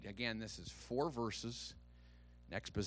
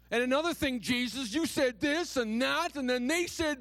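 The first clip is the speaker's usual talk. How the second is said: higher, louder complaining whine to Jesus; whiny accusation; 13 semitones higher, 7 dB louder than usual. Retold or imitated. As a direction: nag and blame like a wronged child. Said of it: "approach Jesus with accusation".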